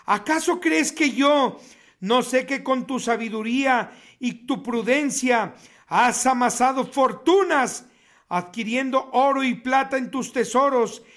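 solemn preacher's reading, steady and grave; weighty sermon reading; preaching scripture. Acted. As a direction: proclaim the doom over the city. Reads Ezekiel prophecy aloud.

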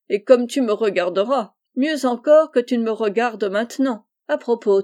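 amused teasing through a mild laugh. Acted. Gentleman teases the grateful boy, lightly laughing. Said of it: "Monsieur Abel riant".

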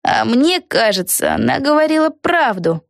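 slow, high, gentle objection; thoughtful girl. A narrator's reading. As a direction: voice a doubtful young girl. Peggy's line.

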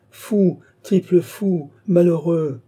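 high, loud scolding; exasperated outburst. A narrator's reading. Old uncle berating his nephew, exasperated outburst. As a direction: snap at him as at a hopeless fool.

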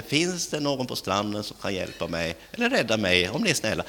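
soft, over-polite request from a drowning man; mock meek asking for rescue; drowning man asking far too softly; polite timid plea. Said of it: "Då säger han inte".

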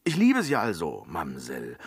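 loud blunt "liebe"; clumsy loud love confession; blunt declaration. Acted. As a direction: bellow the love line.

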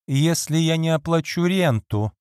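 sharp, impatient outburst; impatient exclaim. Acted. Lady Audley cuts off her maid, impatient. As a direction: snap it out, losing patience. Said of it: "нетерпеливо воскликнула".

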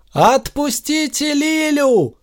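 very high, slow cry; high desperate call; shouting. A narrator's reading. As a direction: cry out to free her. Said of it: "закричал Захар".

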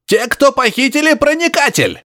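high, straining grunting cry; wheezing professor. Acted. Professor straining to be heard over static, high wheeze. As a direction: force it out with all his breath. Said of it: "прохрипел Барсуков, что есть мочи".

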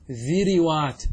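ذروات said with kasra on both ذ and ر, dhi-ri-wat; dhiriwat with kasra. Shown as a demonstration. Teacher demonstrates the forbidden kasra form, slowly. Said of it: "بكسر الفاء والعين".

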